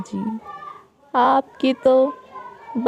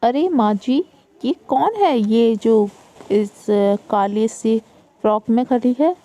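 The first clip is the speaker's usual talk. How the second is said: mocking sister-in-law; 3 semitones higher than usual. Elder daughter-in-law mocking new bride.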